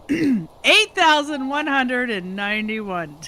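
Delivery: slow, loud and precise; slow deliberate count. Real, not acted. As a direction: spell out the number slowly. Reading number out slowly.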